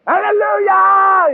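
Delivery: high, loud, drawn-out hallelujah; sarcastic churchy exclamation; mock hallelujah shout. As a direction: belt it out like a mock revival cry.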